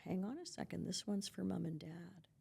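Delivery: a hint of a hushed parent; parent gently holding off. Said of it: "you're gonna say".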